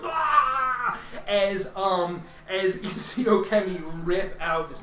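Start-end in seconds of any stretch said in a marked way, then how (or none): 0.0-1.0 cry. Acted. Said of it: "you hear".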